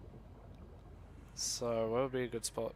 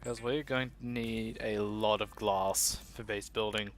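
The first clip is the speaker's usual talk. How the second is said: deep voice; slower than usual. Acted. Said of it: "make my voice all deep".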